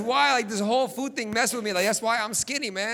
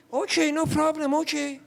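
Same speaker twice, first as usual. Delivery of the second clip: mom giving in; 6 semitones higher than usual. Retold or imitated.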